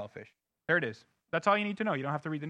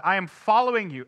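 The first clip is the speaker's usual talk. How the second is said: louder, resolute vow; bold vow; 2 semitones higher, 6 dB louder than usual. Retold or imitated. Peter answering Jesus, a loud firm vow. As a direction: declare it like Peter standing up. Peter voiced declaring loyalty.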